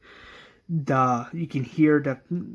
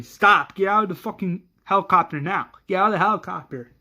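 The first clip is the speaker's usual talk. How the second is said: higher, fast shouted orders; screaming soldiers; 4 semitones higher, 4 dB louder, faster than usual. Acted. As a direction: shout urgent commands, rushing the words. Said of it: "the soldiers are screaming".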